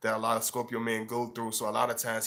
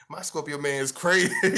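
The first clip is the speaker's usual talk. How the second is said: laughing, higher and louder, half-amused complaint; mock exasperated woman; 4 semitones higher, 5 dB louder than usual. A woman laughing about her Scorpio man, half-exasperated.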